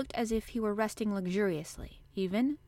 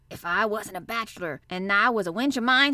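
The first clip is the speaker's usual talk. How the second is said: gruffly indignant dialect threat; 6 dB louder than usual. A narrator's reading. Old gardener shaking his fist at Mary, indignant. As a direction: scold her with growing force. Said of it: "He actually shook his fist at Mary".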